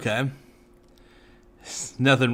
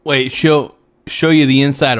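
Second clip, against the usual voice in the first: loud surprised shout; 8 dB louder than usual. Real, not acted. Shocked shout at the show.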